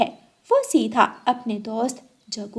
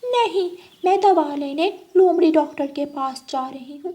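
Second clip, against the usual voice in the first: lightly voiced cat ending on a meow; scheming cat; 6 semitones higher than usual. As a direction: coax your friend as a sly cat. Cat lies to the crow.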